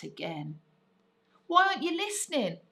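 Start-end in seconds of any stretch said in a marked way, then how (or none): 1.5-2.6 put-on high, fast, pleading child's voice; begging child. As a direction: beg Dad urgently like an impatient girl. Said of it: "she begged".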